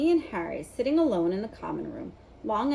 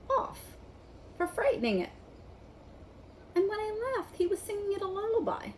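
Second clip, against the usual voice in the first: indignant Ron; 10 semitones higher than usual. A narrator's reading. Ron complaining about the dragon bite, high and indignant. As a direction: moan about the bitten hand.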